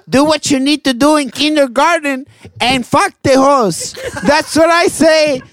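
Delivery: hyped pep talk. Pretend. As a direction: fire up the kids like a coach. Motivational message to kid fans.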